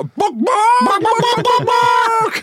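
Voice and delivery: high, loud yapping barks; mock dog barking. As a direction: bark at him like a dog to tease. Mocking the winger flying in.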